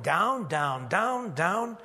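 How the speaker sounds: every "down" its own beat; repeated stress on "down". Shown as a demonstration. Preacher pointing out the text's emphasis, insistent "down". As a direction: toll "down, down, down, down" one by one. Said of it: "Do you think the emphasis here".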